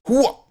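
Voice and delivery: high jump cry; effort yell. Shown as a demonstration. Streamer trying another high jump cry. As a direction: toss off a quick high leap cry. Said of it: "Or like".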